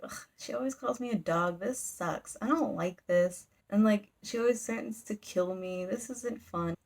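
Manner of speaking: mildly annoyed mock complaint; grumbling. Boy running through the woods, mad about it, mock grumbling. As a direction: grumble it to yourself, lightly acted. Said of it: "he's, like, mad about it".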